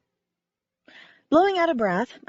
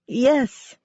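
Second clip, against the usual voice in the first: bright, louder cheer of yes; 4 semitones higher, 5 dB louder than usual. Acted. Cece cheering agreement about her hero Wynne, excited. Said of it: "she cheered".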